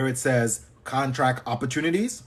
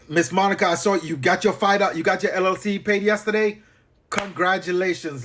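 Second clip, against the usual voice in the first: higher-pitched, excited congratulating; pleased congratulations; 4 semitones higher than usual. Real, not acted. Host congratulates a viewer on her paid LLC, excited.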